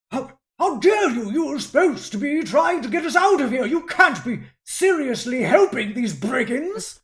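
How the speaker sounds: high, loud, fast indignant protest; a scandalised servant sputtering at his captors; affronted outrage. Acted. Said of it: "looking quite affronted and goes".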